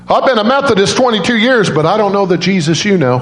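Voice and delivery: high-pitched, imitated tearful confession; retold crying. Crying nurse confessing to the father, high tearful imitation. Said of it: "she's crying, the nurse is crying".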